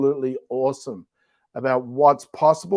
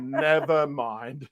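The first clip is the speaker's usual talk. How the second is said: laughing; 3 dB quieter, much slower than usual. Real, not acted. Repeating punchline while laughing.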